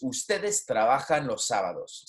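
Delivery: "Ustedes trabajan los sábados" falling on "sábados"; statement intonation. Shown as a demonstration. Spanish teacher modelling a statement, falling intonation. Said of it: "the intonation is going down".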